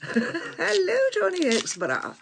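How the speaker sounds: high bright hello, stretched out; sing-song greeting. Real, not acted. Greeting a viewer by name, high sing-song.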